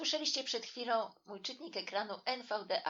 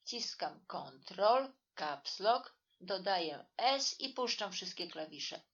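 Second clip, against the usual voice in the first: slow, deliberate. Shown as a demonstration.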